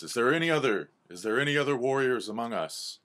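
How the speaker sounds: rallying cry to the crowd; owl calling out. Acted. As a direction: owl elder urgently seeking volunteers. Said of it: "Owl says".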